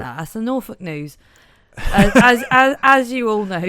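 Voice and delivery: put-on broad Norfolk accent. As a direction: Norfolk newsreader voice. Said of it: "you're just gonna go for it".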